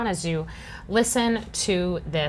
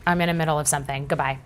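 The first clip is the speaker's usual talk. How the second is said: turning away from phone; faster than usual. Real, not acted. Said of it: "sorry, that was my son".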